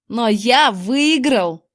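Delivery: slow, drawn-out gloating cry; jubilant yell. A narrator's reading. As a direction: crow about your win. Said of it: "ликующе завопил он". (ликующий вопль)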